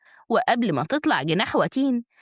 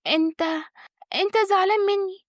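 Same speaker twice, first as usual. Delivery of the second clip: high, coaxing woman's voice with a slight smile; 9 semitones higher than usual. A narrator's reading. Wife draws close to her upset husband, gently coaxing. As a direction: coax him in a raised, lightly smiling voice. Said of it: "قالت بابتسامة بسيطة".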